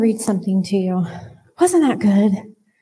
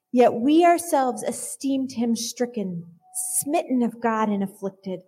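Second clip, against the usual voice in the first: scripture reading. Acted. Reading Isaiah fifty-three to the congregation, solemn and measured. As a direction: let each line land with reverence.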